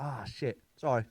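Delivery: sheepish muttered apology to the bus driver. Retold or imitated. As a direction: mumble it like you've just been shown up.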